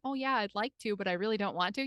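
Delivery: plain Midwestern accent, understated. Shown as a demonstration. Speaker refusing as herself, in her own Midwestern accent. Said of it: "in my Midwestern accent".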